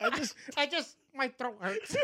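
high, loud, breaking into laughter; laughing hard. Real, not acted. Friend apologising after cracking up, laughing hard. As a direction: try to talk through a laughing fit.

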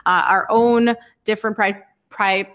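sputtering on saliva mid-word; swallowed wrong way, push through it; choking on saliva. Real, not acted. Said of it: "choking on my saliva over here".

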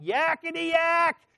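high, slow, squeaky yakety yak; mocking demon chatter. Little demon taunting the man in a high squeaky chatter. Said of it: "he started going".

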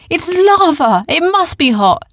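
put-on an astonished child questioning; boy voice. A narrator's reading. Arthur questions Oren about the lava, high and loud. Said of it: "said Arthur".

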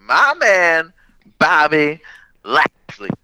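booming ring announcer call. Pretend. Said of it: "Still doing that".

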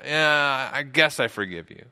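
mildly grudging, hesitant concession; reluctant forgiveness. Acted. A person asked for forgiveness, mildly reluctant. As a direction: give in half-heartedly, as if it's hard to say. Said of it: "have a hard time saying yes".

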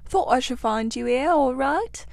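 a hint of a cheery, hearty otter; cheerful otter. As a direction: greet your friends gladly, lightly voiced. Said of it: "said the otter cheerfully".

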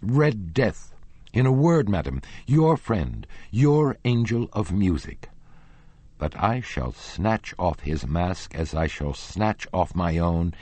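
a jealous lover shouting down his rival; losing his temper. Acted. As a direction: rage at her, building accusation. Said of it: "at once lost his temper".

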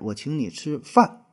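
slow demo, weight landing on 饭; stress on 饭. Shown as a demonstration. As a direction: lean on the word 饭. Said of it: "把这个饭咬的重一点儿".

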